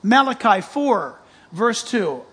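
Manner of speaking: excited preacher announcing the verse; excited loud citation. Real, not acted. Preacher excitedly calling out verse to congregation, loud. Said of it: "I'm yelling at you guys".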